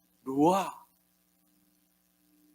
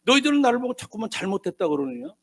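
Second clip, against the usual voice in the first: mildly acted indignation, higher-pitched; Job angry; 5 semitones higher than usual. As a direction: protest innocence as an aggrieved man. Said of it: "욥이 화가 나가지고".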